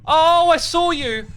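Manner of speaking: high, loud, slow startled cry; startled panic. Real, not acted. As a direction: panic at being seen. Spotted by enemy.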